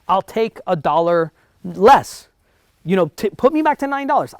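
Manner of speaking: begging to be put back, voice jumping up; urgent bargaining plea; desperate pleading. Retold or imitated. Pleading with boss to return.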